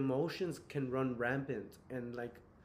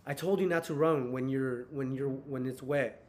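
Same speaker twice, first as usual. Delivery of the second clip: mild scolding, a little raised; retold half-yell; 4 dB louder than usual. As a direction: lightly imitate a parent's half-yelled telling-off. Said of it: "I yelled, I kinda yelled".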